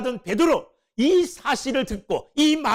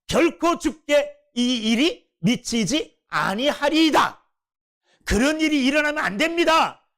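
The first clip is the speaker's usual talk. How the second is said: protesting Peter. Retold or imitated. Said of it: "막 흔들면서".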